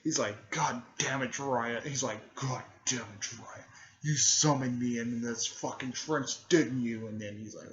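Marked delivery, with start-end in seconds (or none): 0.5-1.8 mildly raised, irritated cursing; pissed-off toad. Retold or imitated. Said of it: "Chief Toad is fucking pissed". 2.4-7.1 pissed-off toad. Retold or imitated. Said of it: "Chief Toad is fucking pissed".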